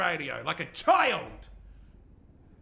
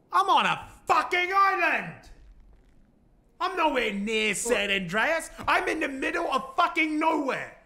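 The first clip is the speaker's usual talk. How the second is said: high, loud stunned yell; loud panicked realization; shocked realization; 10 semitones higher, 5 dB louder than usual. Acted. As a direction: shout the realization in disbelief. Realizing he is on island.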